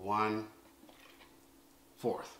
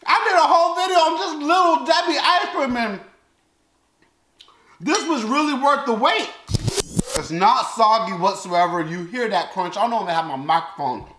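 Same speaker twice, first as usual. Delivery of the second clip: talking between bites of cereal; muffled chewing speech; mouth full, chewing; 3 semitones higher than usual. Real, not acted. Seen 0: Spoon of cereal at mouth before; he talks while chewing between bites.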